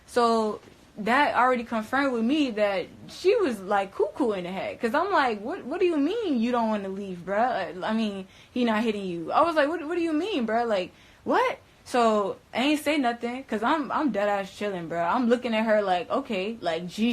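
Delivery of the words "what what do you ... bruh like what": high, loud disbelieving questions; incredulous. Retold or imitated. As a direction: push back in shock. Disbelief at Geneva again.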